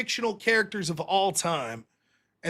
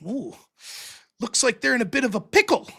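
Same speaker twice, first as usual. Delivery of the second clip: mock narrator voice; 3 semitones higher than usual. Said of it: "here's one of my favorite".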